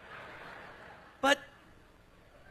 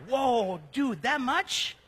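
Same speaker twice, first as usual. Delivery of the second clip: mock astonishment; 2 semitones higher, 3 dB louder, much slower than usual. Acted reaction to the outpouring.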